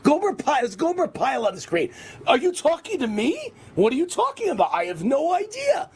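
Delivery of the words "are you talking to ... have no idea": high, put-on clueless hick voice ending in a shout; doofy Southern moron. Host mocking Jeff Sessions as a confused Southern fool, high put-on voice. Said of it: "a doofy Southern moron".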